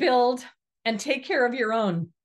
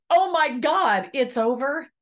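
mock panic; 5 semitones higher, 4 dB louder than usual. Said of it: "come to us as".

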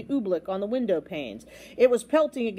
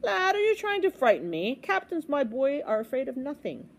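boastful captain; 5 semitones higher than usual. Acted. Captain scoffs at the lad, boastful. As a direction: brag like a fearless captain.

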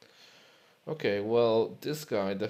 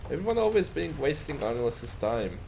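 put-on Scottish accent; 5 semitones higher, 3 dB louder than usual. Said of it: "a bit Scottish".

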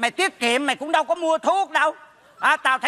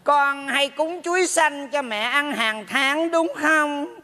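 chậm rãi, kiểu bà mẹ hỏi con; lightly put-on mother voice, drawn out; giả giọng mẹ; 2 semitones higher, much slower than usual. (giọng mẹ kéo dài)

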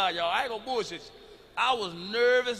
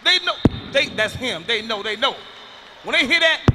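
louder and higher with each they know; building excitement; 6 semitones higher, 8 dB louder than usual. Acted. Comic to audience about wives hearing the car, loud building alarm. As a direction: build the warning, rising loud.

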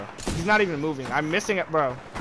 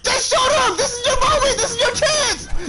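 excited shouting; 10 semitones higher than usual. Real, not acted. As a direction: yell him on, full of urgency. Cheering on the pilot.

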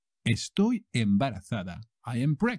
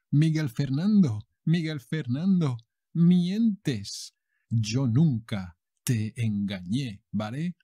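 telenovela heroine accusing. Acted. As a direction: accuse him like a betrayed heroine. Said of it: "And she goes like".

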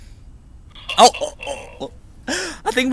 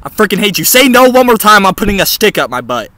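mock anger; 4 semitones higher, 8 dB louder than usual.

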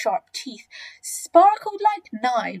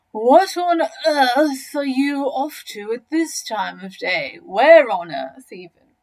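Humpy Rumpy, inquisitive; 3 semitones higher, 6 dB louder, slower than usual. Acted.

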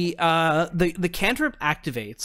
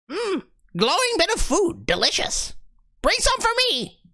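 greedy Cookie. Acted. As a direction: demand the glowing food. GM voices Cookie.

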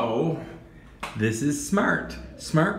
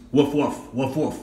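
dog bark; 4 semitones lower than usual. Shown as a demonstration. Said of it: "how the dog speaks".

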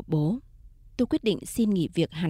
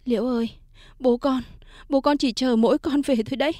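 choked sobbing; 4 semitones higher than usual. Acted. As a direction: speak through sobs, voice catching. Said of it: "Mẹ tôi khóc nức lên, giọng nghẹn ngào". (giọng nghẹn ngào khóc nức)

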